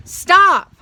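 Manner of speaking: very high, very loud scream. A narrator's reading. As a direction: shriek it with all your breath. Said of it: "I screamed".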